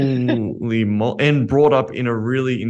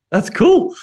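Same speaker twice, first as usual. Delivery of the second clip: casual reaction; 4 dB louder than usual. Retold or imitated. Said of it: "And then I'm like".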